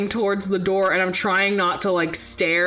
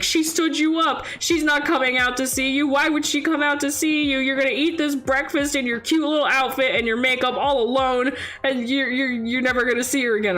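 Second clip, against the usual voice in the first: anxiety monster voice; 5 semitones higher, faster than usual. Pretend. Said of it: "the anxiety monster in my head is like".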